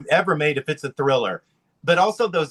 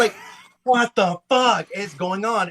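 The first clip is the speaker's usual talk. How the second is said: incredulous; 6 semitones higher than usual. Acted. Actress baffled by the director's request, mock incredulous. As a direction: act out an actress's disbelief. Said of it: "And, and she's like".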